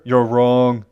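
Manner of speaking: WRONG hit hard and loud; emphatic. A narrator's reading. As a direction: punch out "wrong" firmly. Emphatic verdict in dramatic reading.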